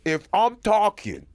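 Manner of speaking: high, loud, hammed-up interviewee voice; mock tough-guy guest. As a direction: puff up like a guest lecturing the host. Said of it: "and then he goes".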